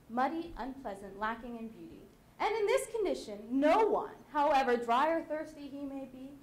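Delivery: measured, deliberate recitation, rising on key phrases; dramatic monologue recitation. Acted. Wife lecturing other women on their husbands, measured recitation.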